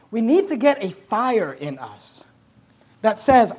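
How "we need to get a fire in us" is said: usual speaking voice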